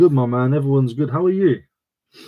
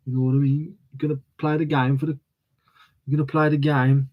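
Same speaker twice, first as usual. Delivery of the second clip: TV Birmingham accent. Shown as a demonstration. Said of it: "that's like a T V Birmingham".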